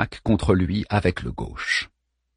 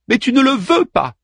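higher, louder accusation; wife accusing Hector, bitter cry; 13 semitones higher, 5 dB louder than usual. Acted. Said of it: "s'écria Andromaque".

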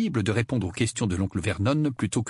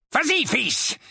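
high, lightly voiced urging uncle; urging father; slower than usual. A narrator's reading. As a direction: prompt your son to speak. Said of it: "dit l'oncle Vernon". (père qui encourage)

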